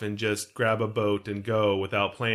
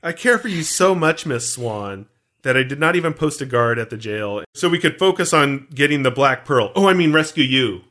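Norrington voice; 2 semitones higher, 5 dB louder than usual. Retold or imitated. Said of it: "He's like".

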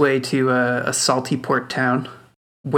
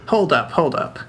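grandpa voice; 3 semitones higher, 4 dB louder than usual. Acted.

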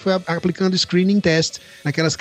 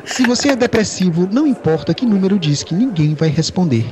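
customer service voice. Retold or imitated. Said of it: "atende a secretária eletrônica dizendo".

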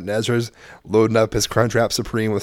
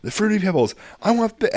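put-on eager kid voice; 3 semitones higher than usual. Son choosing toppings eagerly.

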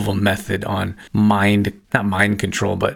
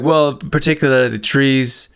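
slow, prim mock official; lightly voiced fussy official; a hint of a prissy park supervisor; imitating the supervisor; 4 semitones higher than usual.

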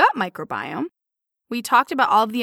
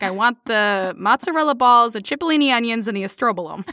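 put-on Italian-American accent. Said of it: "My roots are showing".

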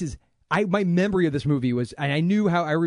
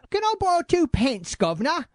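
high-pitched hammy Cockney plea; amateur Cockney, rising at the end; bad Cockney. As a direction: ask in an exaggerated Cockney accent. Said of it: "my Cockney".

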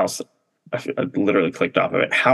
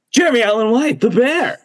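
high, loud excited reveal; excited announcement; 12 semitones higher, 4 dB louder than usual. Pretend. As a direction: announce the winner with big excitement. Mock award announcement, big reveal.

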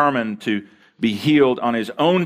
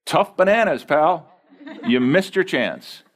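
mock dismissive; 4 semitones higher than usual. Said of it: "If I was God, I would have said".

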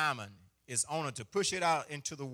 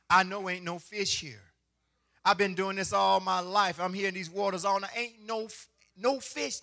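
voicing Peter; 3 semitones higher than usual. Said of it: "Okay, Peter".

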